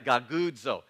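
gagudzo said crisply as a drill; demo word. Shown as a demonstration. Pastor leading congregation to repeat gagudzo, upbeat. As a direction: lead the crowd in gagudzo. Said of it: "say gagudzo five times really fast".

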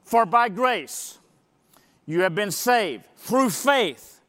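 slow, deliberate reading, leaning on each phrase; preacher rereads verses, pressing each point; slow counting emphasis. Shown as a demonstration. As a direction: count off each claim as you read. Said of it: "Can we just count 'em?".

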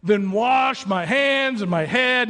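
an over-eager disciple blurting it out; eager exclaim. Retold or imitated. Peter to Jesus, mock eager exclaim. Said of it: "Simon Peter exclaimed".

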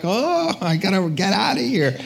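high, rising "oh" into an urgent resolve; playful retold dismay; retold exclamation. Retold urge to flee God.

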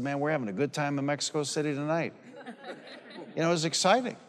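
quick, laughing quip to Sue; laughing aside. Retold or imitated. Preacher retelling his quip to Sue during the deliverance, laughing. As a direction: toss it off with a laugh in the voice. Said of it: "And I said to Sue".

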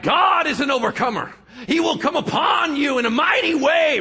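loud, high mock pulpit proclamation; super Christian voice. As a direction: puff up and preach at him. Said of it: "super Christian tights".

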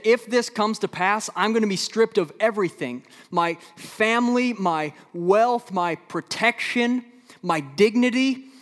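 high, loud, desperate listing; loud despairing prophet's cry; anguished lament. Acted. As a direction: pile on each loss with rising anguish. Voicing Habakkuk stripped of everything.

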